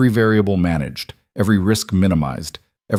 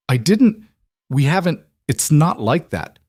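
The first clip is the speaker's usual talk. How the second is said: flustered denial; 7 semitones higher than usual. Acted.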